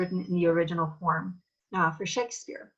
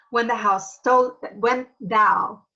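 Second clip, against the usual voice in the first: Shakespearean Titania; 2 semitones higher, 6 dB louder than usual. Shown as a demonstration. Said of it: "So that's a more formal way".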